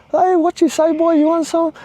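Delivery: high mocking taunt of a street tough; mock tough-guy challenge. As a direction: sneer it like the guy squaring up. Aggressor taunting him before fight.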